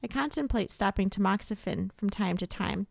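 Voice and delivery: measured, slightly softened read-aloud; reading comments aloud. Real, not acted. Host reads anonymous survivor comments, subdued read-aloud. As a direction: read out someone else's words with restraint.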